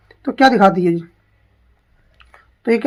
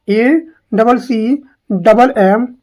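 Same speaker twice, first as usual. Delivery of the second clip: A double C spelled out slowly, letter by letter; slow dictation; much slower than usual. Shown as a demonstration. Teacher spells A double C slowly for students to note down. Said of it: "spelling repeated for students".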